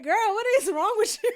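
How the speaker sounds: fast, high, laughing disbelief. Retold or imitated. Tiny cracking up at the road manager, laughing. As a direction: crack up while asking it. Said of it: "Tiny was cracking up at her like".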